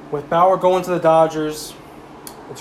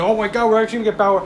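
mock excited fan; 4 semitones higher, faster than usual. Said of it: "Met fans get all excited".

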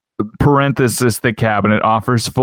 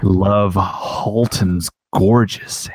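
documentary narrator. Pretend. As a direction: narrate it like a nature film. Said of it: "like a documentary".

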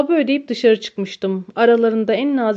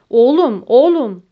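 loud, sharp rise and fall; loud exclamation; 3 semitones higher, 8 dB louder than usual. A narrator's reading. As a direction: call it out forcefully, twice. Exclaimed dialogue in a fight scene.

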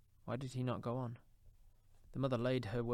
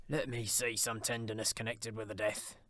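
lightly voiced old Scrooge; a hint of an old man pleading. A narrator's reading.

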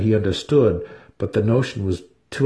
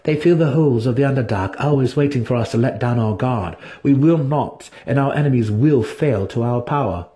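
Drizzt reciting; 4 semitones higher than usual. Acted. Drizzt parroting academy lessons to Dinin: firm recitation. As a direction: declare it like a lesson learned by rote.

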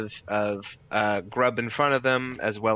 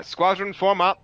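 shouted command; 9 semitones higher, 5 dB louder than usual. Acted. Captain shouting orders outside tent.

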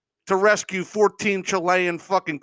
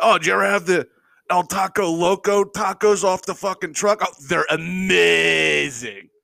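mocking gushing fan; 3 semitones higher than usual. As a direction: ham up a taco fan's awe. Mocking taco fans raving.

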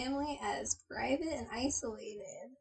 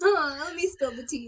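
gossipy neighbor; 3 semitones higher, 3 dB louder than usual. Retold or imitated. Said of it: "neighbors being like".

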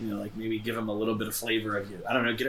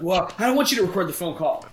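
higher, louder whiny protest; mock whiny caller; 7 semitones higher, 5 dB louder than usual. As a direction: imitate a flustered man pleading. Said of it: "he's like".

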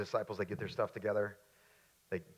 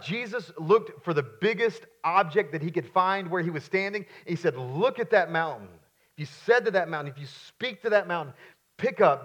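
raised, insistent sermon delivery; emphatic preaching; 6 semitones higher, 9 dB louder than usual. Acted. Preacher urging the congregation to bold faith, emphatic. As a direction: preach it out, landing hard on key words.

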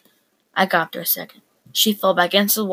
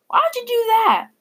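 furious sister; 3 dB louder than usual. Acted. Sister furious, mint thrown away.

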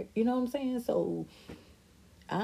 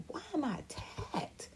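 hurt plea; 10 semitones higher, 8 dB quieter, slower than usual. Retold or imitated. Daughter pleading against mom's attacks.

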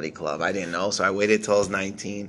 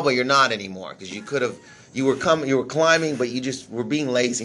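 imitating an angry manager; 3 semitones higher than usual. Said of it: "like, mad at me".

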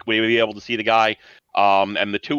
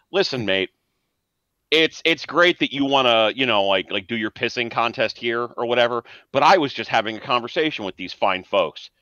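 Genghis. Acted. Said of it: "And he goes".

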